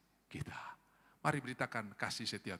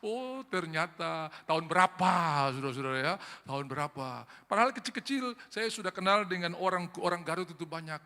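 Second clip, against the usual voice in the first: ordinary talk, nothing marked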